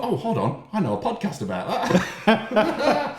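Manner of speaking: high, slow, laughing through it. Retold or imitated. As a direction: giggle through the thought. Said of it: "And I thought".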